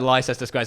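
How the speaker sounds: Leicester Square read as spelt, lie-SESS-ter; mispronounced by a non-native. Shown as a demonstration. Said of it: "pronounce them wrong".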